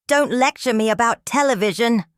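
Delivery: high, loud angry outburst; shrieked. A narrator's reading. Host rejecting guest's lecture, high angry shriek. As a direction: shriek it back, losing control. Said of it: "Colbert shrieked, his voice cracking".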